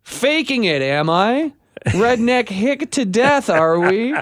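drawn-out sarcastic challenge; mock indignant. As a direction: act offended, teasing. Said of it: "mock indignant reply to report".

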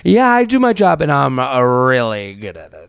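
mock the guy bragging about his job; mock cocky date. Co-host mocking the date's bragging, hammed-up smug voice. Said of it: "What a weird thing".

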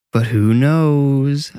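slow, high hammed-up ghoul; cheesy ghoulish voice. Sister teases her brother, cheesy ghoulish voice. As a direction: ham up a spooky ghoul. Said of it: "in a cheesy, ghoulish voice".

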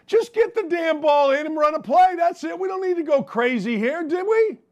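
high, worked-up courtside rant; exasperated, pleading high voice; excited rant. Retold or imitated. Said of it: "and I'm like".

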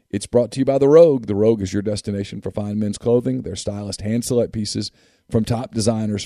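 upbeat radio ad read; chipper 1950s ad. Acted. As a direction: sell it like an old-time announcer. Host reads sponsor ads.

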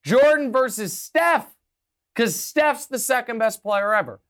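loud, high, gloating ho ho; mock pundit gloat. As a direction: ham up a smug pundit springing a surprise. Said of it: "He was like".

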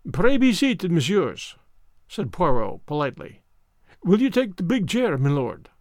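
fussy Belgian detective voice; lightly French-accented precise gentleman; Hercule Poirot. Acted. Poirot speaks.

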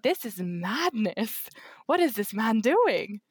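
drawn-out, swooping retold amazement; mock disbelief. Telling how he kissed her before friends, mock disbelief. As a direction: stretch the words in playful astonishment. Retelling amazement at public affection.

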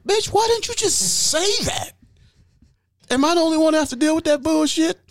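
high, fast mock rant; mock exasperated outburst. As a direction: fire it back high and fast as the exasperated boyfriend. Man snapping back in story.

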